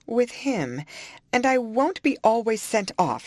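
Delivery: high, rising indignation; kindling anger. A narrator's reading. Heated outburst, pitched high. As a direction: Isabella flares up at Catherine. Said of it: "kindling up".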